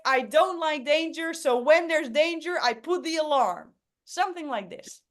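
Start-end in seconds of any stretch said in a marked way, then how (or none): 0.1-3.7 raised, louder eager intro voice; a hint of a protective hero; example character intro. Shown as a demonstration. Host demos the character for the workshop, eager and raised. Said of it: "I would be something like".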